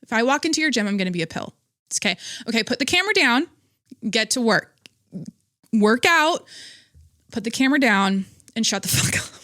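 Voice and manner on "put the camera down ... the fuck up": raised, bossy telling-off with a laugh at the end; mock scolding. Vlogger telling gym filmers off, mock-angry bark. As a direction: scold them like a drill sergeant, half joking.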